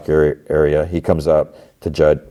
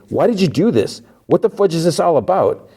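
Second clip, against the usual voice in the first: higher, hammed-up furious questions; mock yelling demand; 11 semitones higher than usual. Mark blocking her car, hammed-up angry demand. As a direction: play him demanding answers over the top.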